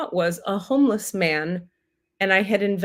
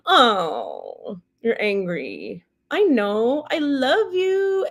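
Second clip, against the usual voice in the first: God's voice; 3 semitones higher, much slower than usual. Retold or imitated. Teller voices God soothing her anger, a touch tender and slow. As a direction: comfort an angry child, slowly. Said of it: "So it goes".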